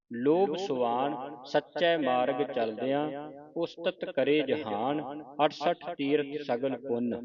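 measured recitation with drawn-out line endings; scripture recitation. Shown as a demonstration. Teacher reads scripture for students to follow, measured recitation.

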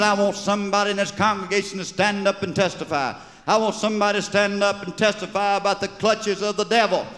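high, fervent call to testify; revival preacher. Acted. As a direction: rouse the congregation like a preacher.

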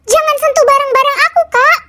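put-on hiss-free but uncanny, like a demon child; creepy child voice. Adopted demon child warns big sister off, high fast eerie voice.

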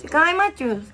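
put-on lisping three-year-old voice; baby talk. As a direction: play a whiny toddler. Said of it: "三歳だから".

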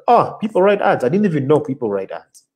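high astonished oh, then settling; amazed that writing ads is a job; retold surprise. Hearing about copywriting from friend, high surprised oh. Learning people write ads.

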